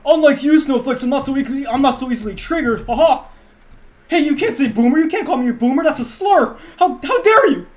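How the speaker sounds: loud, high-pitched indignant boomer rant; outraged boomer. Acted. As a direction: shout it like an easily offended boomer. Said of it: "can you voice a boomer?".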